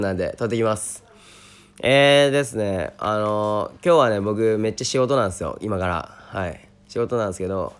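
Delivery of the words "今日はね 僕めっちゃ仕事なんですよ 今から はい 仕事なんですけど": low, tired hungover voice. Real, not acted. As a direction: speak as if nursing a hangover. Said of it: "二日酔いですよね". (二日酔いのだるそうな声)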